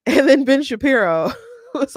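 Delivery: words broken by laughter; laughing. Real, not acted. Retelling the ambulance threat while laughing. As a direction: talk through giggles.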